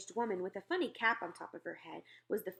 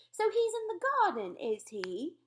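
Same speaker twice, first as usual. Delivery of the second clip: smiling; 10 semitones higher, 6 dB louder than usual. A narrator's reading. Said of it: "smiling a little".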